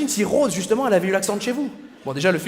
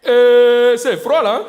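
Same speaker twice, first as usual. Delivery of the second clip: hammed-up African accent, higher, louder and very slow; 5 semitones higher, 9 dB louder, much slower than usual. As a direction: draw out the cold in an African accent. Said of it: "s'il avait eu l'accent africain". (accent africain exagéré, lent et fort)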